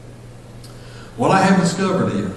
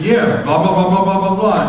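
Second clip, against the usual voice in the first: higher, louder babble of blahs; rambling chatter; 5 semitones higher, 4 dB louder than usual. Retold or imitated. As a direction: imitate yourself rattling on without a break. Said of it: "If you could just slow down".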